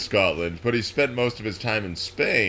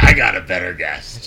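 mock snooty host; 4 semitones lower, 7 dB louder than usual. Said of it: "that's how you sound too".

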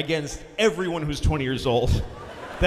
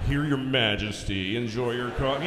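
sarcastic; 6 semitones lower than usual. Acted. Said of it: "make my coffee sarcastically".

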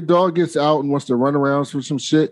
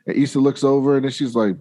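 ordinary delivery

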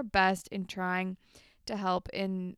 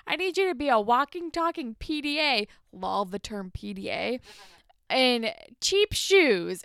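stern boss; 3 semitones higher, 6 dB louder than usual. Retold or imitated. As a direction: lay down the law to the intern. Andrea ordering Paige.

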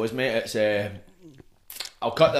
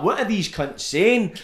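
slow, raised-pitch puzzlement; slow, higher, baffled self-quote; mock bafflement; 7 semitones higher, slower than usual. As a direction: draw it out as if you can't understand a word. Baffled reaction, retold.

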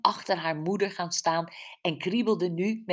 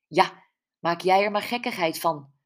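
mildly grumbling mother; a touch of grumpy reproach; 4 dB louder than usual. Acted. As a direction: grumble back at the teasing. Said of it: "mopperde haar moeder".

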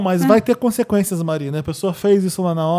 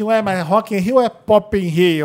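mock complaint; 8 dB louder, much slower than usual. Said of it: "eu reclamava o seguinte".

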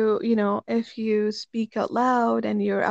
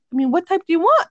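retold indignant demand; 7 semitones higher, 8 dB louder, faster than usual. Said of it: "And I'm like".

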